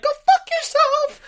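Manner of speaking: very high, loud, slow squeak; high squeaky voice. Retold or imitated. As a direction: squeal the insult in a cartoon voice. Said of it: "And you're like".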